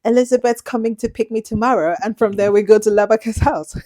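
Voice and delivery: hint of a childish British accent, a bit fast; mock British accent. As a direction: imitate a child showing off her new British accent. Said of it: "trying to speak like the British".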